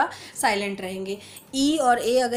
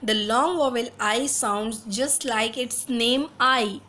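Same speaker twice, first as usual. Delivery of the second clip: slow textbook reading; much slower than usual. Acted. Reads English rule slowly.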